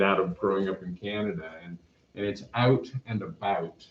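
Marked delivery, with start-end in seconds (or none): 1.6-3.9 out and about with a light Canadian ow. Shown as a demonstration. Growing up in Canada, a light Canadian ow. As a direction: let the Canadian ow slip into out and about. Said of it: "There's this ow sound".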